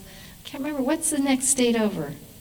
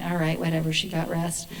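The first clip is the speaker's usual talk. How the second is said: low, softened grudging concession; grudging devil; 5 semitones lower, 6 dB quieter than usual. Acted. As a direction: concede reluctantly, dropping pitch and volume. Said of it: "the devil's kinda going".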